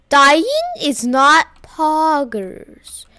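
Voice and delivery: very slow robot voice, each word spaced. Shown as a demonstration. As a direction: stretch it out like a robot. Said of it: "like I'm a robot?".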